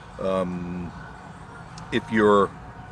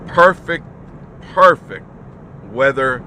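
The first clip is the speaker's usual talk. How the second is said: excited; 4 semitones higher, 6 dB louder than usual. Acted. Weatherman enthusing about cool weather.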